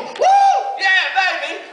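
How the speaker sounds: mocking how young people rave about coffee shops; mock teen excitement. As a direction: gush like an over-the-top fan.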